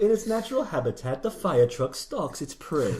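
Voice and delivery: hushed nature narrator voice; nature documentary. Retold or imitated. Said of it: "Like that Family Guy episode".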